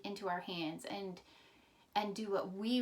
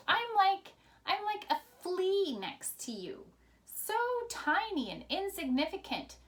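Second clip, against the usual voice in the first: raised, pleading call to the king, going higher at "I'm like a flea"; pleading yell; 4 semitones higher, 3 dB louder than usual. Acted. David calling to King Saul, loud pleading yell. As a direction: plead loudly from a distance. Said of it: "David yelled to King Saul".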